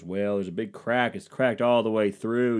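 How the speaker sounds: slow, put-on Southern drawl; Southern accent. Contractor reporting a cracked sink in a slow Southern accent. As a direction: draw it out like a Southern handyman. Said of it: "I'm gonna give him a Southern accent".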